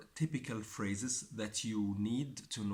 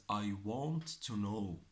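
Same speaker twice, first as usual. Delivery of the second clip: slow teaching; slower than usual. Shown as a demonstration. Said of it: "phrase I want you to know".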